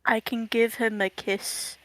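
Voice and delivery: soft whisper. Real, not acted. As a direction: whisper it sweetly. Whispered line.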